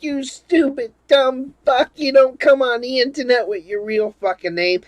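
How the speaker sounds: high, loud mock yell of an angry friend; imitating Jeff yelling. Friend yells at newbie over mic, high mock yell. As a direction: rant at the new guy like a furious Jeff. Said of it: "he's yelling at me over the mic".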